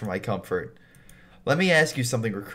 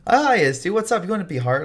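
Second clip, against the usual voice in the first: high, loud, peppy caller; calling voice; 7 semitones higher, 4 dB louder, faster than usual. Acted. Character calling from behind on the walk home, high hail. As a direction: pitch it way up like someone hailing a friend. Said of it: "you hear a voice calling from behind you".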